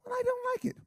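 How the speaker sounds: very high whiny complaining voice; mock objector. Preacher mimicking a church member who objects to giving. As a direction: whine it like a sulky churchgoer.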